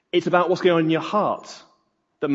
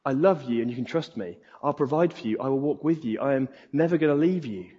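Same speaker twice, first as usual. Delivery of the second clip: softer, lower, reassuring delivery; tender Father; 3 semitones lower, 3 dB quieter than usual. Acted. God the Father promising his love to a child, tender. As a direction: reassure gently as a loving father. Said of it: "the voice of the Father who says".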